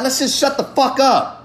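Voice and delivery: fired-up plea to stop complaining; passionate outburst. Real, not acted. Fed up with crying about it, speaker pleads passionately. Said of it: "I say that in a way of passion".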